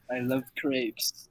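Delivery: slow, careful French accent on "I love crepes". Shown as a demonstration. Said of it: "Oh, they said French, French accent".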